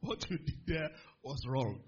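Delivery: low, slow, deliberate rebuke; reproving God. Retold or imitated. God rebuking the young believer, slow low reproof. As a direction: spell out the verdict slowly. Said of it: "God said".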